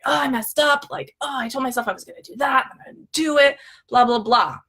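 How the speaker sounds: lightly hammed-up inner critic; dramatic self-blame. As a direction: play-act beating yourself up. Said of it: "these are crazy dramatic thoughts".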